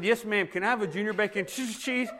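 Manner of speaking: trying to order through giggles; fighting back a laugh on "cheese"; holding in laughter. Retold or imitated. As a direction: voice wobbling with suppressed laughter. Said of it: "I said".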